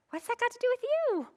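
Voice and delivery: a touch of a firm rebuke; pointed retort. Retold or imitated. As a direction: turn it back on him. Jesus answering Peter.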